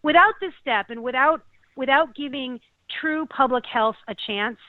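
real emotion tightening the voice; choked up. Real, not acted. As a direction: push on through rising tears. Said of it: "I feel like I'm gonna cry".

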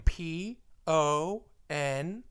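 slow letter-by-letter spelling of P O N. Pretend. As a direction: spell P O N out slowly, one letter at a time. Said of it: "For my spelling bee heads out there".

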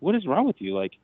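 high-pitched, incredulous telling-off; jumpy high pitch, no extra volume, telling someone to calm down; retold exasperation. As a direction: act out exasperation at someone overreacting. Retold exasperation at panicking wife.

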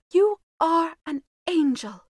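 high, loud, slow exclamation; fervent high-pitched outburst; adoring cry. A narrator's reading. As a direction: cry it out in adoration, word by word. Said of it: "cried the Duke".

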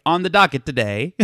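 lightly voiced topical comedy host; comedy-show host. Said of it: "like, their John Oliver Daily Show".

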